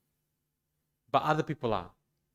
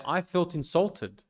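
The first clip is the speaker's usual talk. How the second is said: calm statement; 5 semitones higher, slower than usual. Shown as a demonstration. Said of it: "much better way of saying it".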